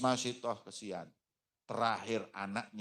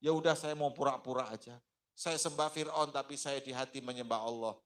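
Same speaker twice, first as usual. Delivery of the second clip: wavering despair; 5 semitones higher than usual. Acted. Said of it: "Mulai goncang hatinya".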